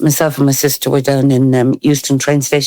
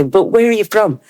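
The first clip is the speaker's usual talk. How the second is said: mock questioning; 7 semitones higher than usual. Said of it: "they'd say".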